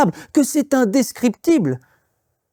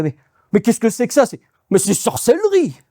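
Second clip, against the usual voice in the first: surprised; 3 semitones higher, faster than usual. Acted. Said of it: "il est surpris, il fait".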